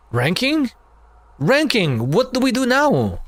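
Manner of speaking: high, breathless soldier cheering a kill; excited comrade voice. Acted. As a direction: shout the victory to your friend. Comrade asks what next.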